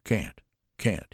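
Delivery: moaned. Acted. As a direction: plead helplessly in a light moan. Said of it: "he moaned".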